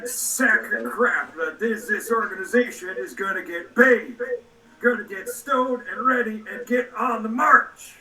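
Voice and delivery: lightly voiced drill sergeant; a hint of a barking drill instructor; R. Lee Ermey. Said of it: "R. Lee Ermey in Full Metal Jacket".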